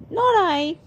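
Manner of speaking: high mewing cat voice; meowed. Acted. Cat refusing to bake bread, high meowed. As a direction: meow the words like a cat. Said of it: "meowed the cat".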